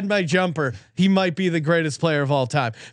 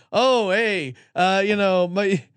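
higher, hammed-up Australian accent; bad Australian accent; 3 semitones higher than usual. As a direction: put on a terrible Aussie miner's voice. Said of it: "that's a horrible accent".

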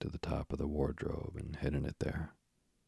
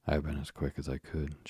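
panting. Acted. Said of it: "she panted".

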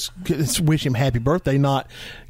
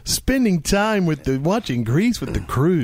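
mock jovial. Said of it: "It's just the jovial, "I'm Captain Family" tone".

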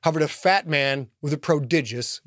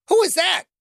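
alarmed; 4 dB louder than usual. Acted. Alarmed boy on speeding bike.

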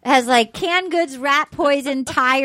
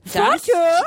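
exaggerated Aussie name ending; amateur Australian twang; Australian accent; 5 semitones higher than usual. Shown as a demonstration. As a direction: push the Australian vowel for laughs. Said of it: "You could do an accent".

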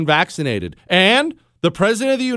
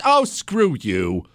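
scorn; 7 semitones lower than usual. Acted. Scornful retort to politicians.

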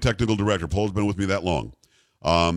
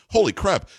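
stunned exclamation; 8 semitones higher than usual. Retold or imitated. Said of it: "I was like".

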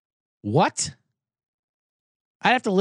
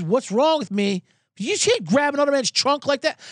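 higher, heated imitation of the driver; indignant retort; 10 semitones higher than usual. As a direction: throw the accusation back, offended. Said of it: "He goes".

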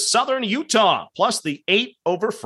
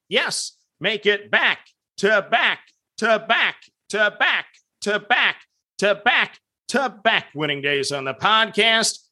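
out of breath. Real, not acted. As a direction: rattle it off until winded. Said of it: "I'm out of breath".

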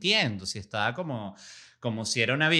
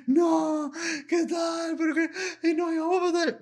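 much higher, whiny mock sob; mock crying girls. Denied teen girls leaving the visa window, whiny mock crying. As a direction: wail it like a denied teenager. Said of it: "las chamas se fueron llorando".

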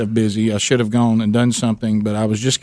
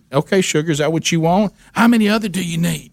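put-on higher, a sweet-talking old waitress; hoarse waitress voice; 7 semitones higher than usual. Waitress sweet-talking a hungry caller, higher and sugary. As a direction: call him sugar like a lifelong diner waitress. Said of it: "that has a hoarse voice".

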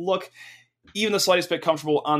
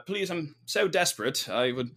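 badly faked British begging; bad British accent. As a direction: plead in a hammed-up British accent. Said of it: "doing a bad British accent".

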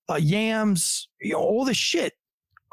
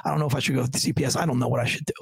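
low, quick, blunt admission; matter-of-fact retelling, hurried and low; 3 semitones lower, much faster than usual. Retold or imitated. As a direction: rattle it off bluntly, pitch sinking. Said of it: "I was very blunt with him".

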